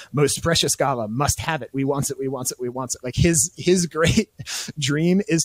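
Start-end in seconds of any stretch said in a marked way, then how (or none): 0.1-3.0 Gollum craving. Retold or imitated. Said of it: "He says".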